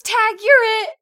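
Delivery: put-on high excited kid shout; playful kid voice. Child voiced by mom.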